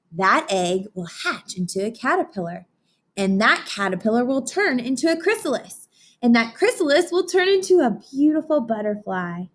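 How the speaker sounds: put-on gentle storybook narration for kids; picture book reading. A narrator's reading. Teacher reading to her class, storybook voice. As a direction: read it like story time on the rug.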